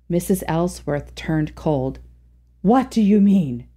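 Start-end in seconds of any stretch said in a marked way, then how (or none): 2.6-3.7 gasped. Acted. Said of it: "she gasped".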